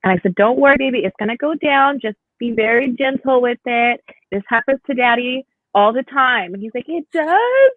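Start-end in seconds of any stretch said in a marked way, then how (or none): 0.3-6.5 higher, gentle comforting tone; reassuring mom. Retold or imitated. 6.9-7.7 put-on high, amazed kid voice; surprised little boy. Son surprised.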